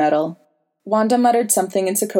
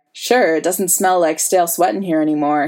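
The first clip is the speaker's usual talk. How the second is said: yawning. Acted. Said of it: "he yawned".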